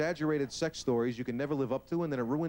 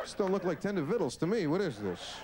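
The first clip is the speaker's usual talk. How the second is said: startled friend; 8 semitones higher than usual. Acted. Friend startled by litter box.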